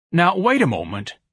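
high-pitched plea; begging. Acted. Ignatius to the departing choir, begging. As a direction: plead with them to stay. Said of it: "Ignatius begged".

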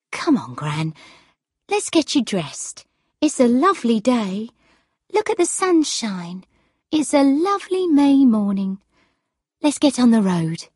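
lightly voiced cheerful encouragement; coaxing granddaughter. Granddaughter getting gran up and dressed, mildly coaxing. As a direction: gently chivvy gran along, lifting the pitch.

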